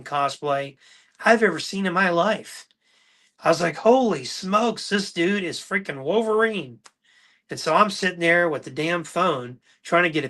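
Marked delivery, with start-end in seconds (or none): 3.8-6.8 higher, amazed gasp of a fan; wide-eyed fan seeing a superhero; starstruck. Retold or imitated. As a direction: gush like you've spotted a hero. Starstruck at Wolverine cosplay.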